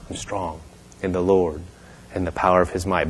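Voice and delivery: soft, low, feeble murmur; barely getting words out. Retold or imitated. Sick woman repeating the minister's words, weak and hushed. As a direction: imitate struggling to push words out. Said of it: "Just barely trying to get the words out".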